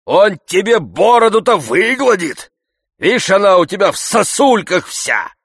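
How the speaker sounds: high, loud jeering coachman voice; mocking coachman. Coachman jeering at Zakhar, loud and mocking. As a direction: taunt the old servant loudly.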